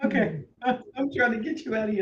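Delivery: words spoken through laughter. Trying to start the show with a guest, laughing while talking. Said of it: "and I can't stop laughing".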